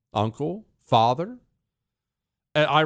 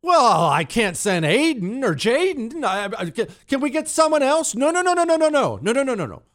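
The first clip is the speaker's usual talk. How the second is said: high, whiny panicked refusal; mock suburban mom; 9 semitones higher than usual. Host voicing a suburban mom refusing to send her son, high panicky whine. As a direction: ham up a mom dodging the draft.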